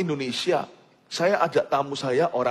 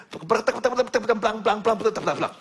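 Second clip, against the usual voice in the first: imitated foreign sound; 4 semitones higher, slower than usual. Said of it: "Gimana sih kira-kira kedengarannya?".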